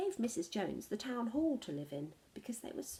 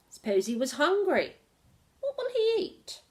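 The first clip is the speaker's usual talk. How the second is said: high, louder, fretting; worried mayor; 8 semitones higher, 8 dB louder than usual. Acted. The mayor worries to townspeople about Mog, high and louder. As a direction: fuss like a nervous official. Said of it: "said the mayor".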